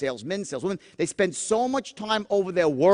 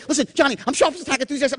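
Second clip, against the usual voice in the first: overeager pitch; 7 semitones higher, much faster than usual. Shown as a demonstration. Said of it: "You can't say".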